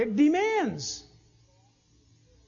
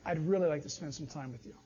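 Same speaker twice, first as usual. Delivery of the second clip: God's gentle call; 6 semitones lower, 9 dB quieter, faster than usual. Retold or imitated. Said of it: "He's saying".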